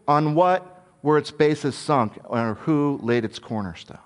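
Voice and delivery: lightly voiced gruff God; a hint of a stern, gruff God; God answering Job, a touch gruff. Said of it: "kind of a gruff answer".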